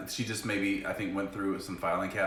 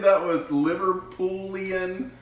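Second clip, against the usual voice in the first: playful teasing; 9 semitones higher, 5 dB louder, slower than usual. Real, not acted. Teasing spouse about her accent.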